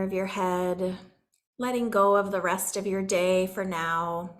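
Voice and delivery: calm meditation leader with long pauses; soothing healing-session voice, phrases spaced by silence; guided meditation. Real, not acted. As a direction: gently guide them inward, unhurried.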